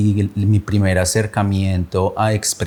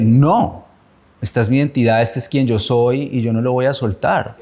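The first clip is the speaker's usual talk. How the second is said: defiant outburst; 3 semitones higher than usual. Retold or imitated. Defiant inner vow of identity.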